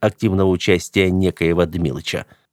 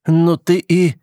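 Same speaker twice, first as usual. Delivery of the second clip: high, indignant cut-off; lost for words, outraged; exasperated disbelief; 9 semitones higher, 3 dB louder, slower than usual. Acted. Hero stunned by the rat.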